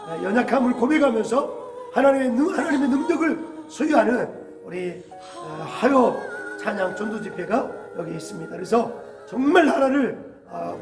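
normal talking voice

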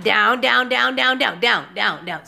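rapid, repeated command, loud then easing; shooing a pet. Real, not acted. Owner telling her cat to get off the screen, shooing. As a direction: shoo the cat down firmly.

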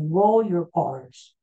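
slow, insistent teacher command; stern professor. Retold or imitated. Professor scolding his student, slow insistent command. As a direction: drill it slowly like a strict teacher. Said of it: "my professor would always say".

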